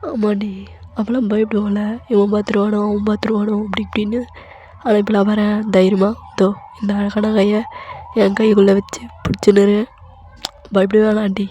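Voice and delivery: husband swaggering to reassure her; a hint of a cocky husband; bold husband. Narrator voices husband boasting.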